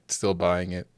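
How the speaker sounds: ordinary talk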